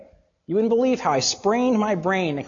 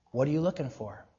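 softer, lower rhetorical question; quiet challenge to the listeners; searching question; 4 semitones lower, 8 dB quieter, faster than usual. Real, not acted. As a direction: ask it quietly and leave it hanging. First asking of a searching question.

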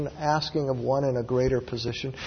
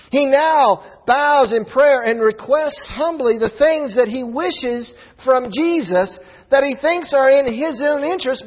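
loud, fervent sermon delivery; preaching; 7 semitones higher, 5 dB louder than usual. Acted. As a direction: build the sermon with conviction. Preaches at full force.

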